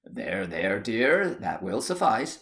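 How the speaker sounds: calm her down gently; soothing. Acted. Husband soothes crying wife.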